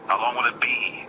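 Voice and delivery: hushed scripture reading; whispered scripture. Real, not acted. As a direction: read the verse in a whisper.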